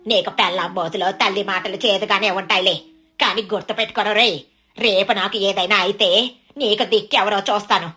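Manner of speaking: lightly voiced resentful mother; guilt-trip the son with a warning; a hint of bitterness; bitter mother-in-law.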